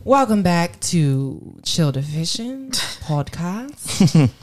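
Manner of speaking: slightly British accent, drawn-out slow welcome; a little British. Real, not acted. Host welcomes listeners back to the podcast, a little British. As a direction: slip into a light British accent, taking it slowly. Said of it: "got a little British".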